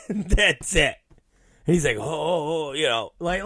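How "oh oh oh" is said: softly concerned ohs; compassionate. Retold or imitated. Producer reacting to comic's indifference, compassionate. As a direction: imitate a friend gently taken aback. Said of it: "like, very compassionate about it".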